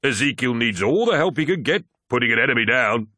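high, loud teasing; sniggering jibe. A narrator's reading. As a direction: rib your comrade with mocking glee. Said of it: "sniggered Torgadon".

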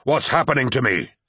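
a desperate plea flung at the heavens; cried out. A narrator's reading. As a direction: call out to the sky in confusion. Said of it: "he cried out to the heavens".

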